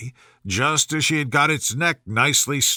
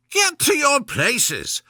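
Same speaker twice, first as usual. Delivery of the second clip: voice of thunder; 11 semitones higher, slower than usual. Acted. Queen ordering the players, high thundering command. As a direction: thunder the order over the crowd. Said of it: "in a voice of thunder".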